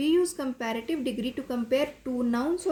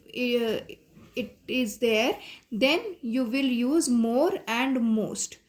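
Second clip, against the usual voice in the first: slow dictation; much slower than usual. Acted. Teacher reads English rule slowly.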